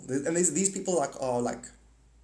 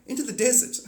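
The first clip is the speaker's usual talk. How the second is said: lofty God voice; 9 semitones higher, 4 dB louder than usual. Retold or imitated. Acted dialogue with God.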